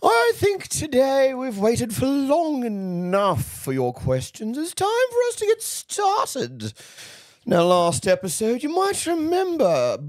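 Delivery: theatrical camp diva voice; lightly voiced camp auntie; campy drag queen. Holds Auntie Loosh voice.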